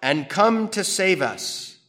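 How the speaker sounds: measured liturgical reading; solemn scripture reading. Acted. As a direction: intone it like a psalm in church. Reads psalm in solemn style.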